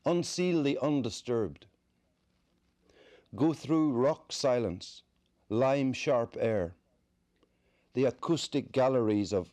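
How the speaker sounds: slow, spaced verse with long pauses; measured poetry recital; poem reading. Acted. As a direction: recite the poem unhurriedly, image by image. Reads poem The Easter House.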